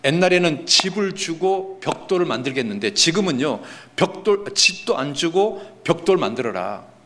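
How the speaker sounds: ordinary talk, nothing marked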